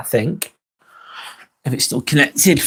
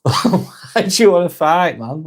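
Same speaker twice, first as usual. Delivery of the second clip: laughing; 3 semitones higher, slower than usual. Real, not acted. Laughing at a viewer's fight challenge.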